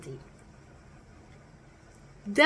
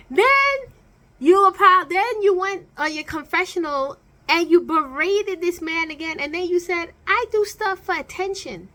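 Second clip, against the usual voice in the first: exasperated outburst; 3 semitones higher than usual. Real, not acted. Angry rant at the cast member.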